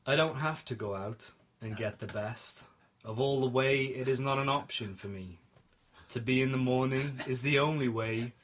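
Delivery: reciting nonsense as a poem; mock-serious poem reading; poetic recital. Shown as a demonstration. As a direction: read it like a poem, measured. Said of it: "can I say it poetically?".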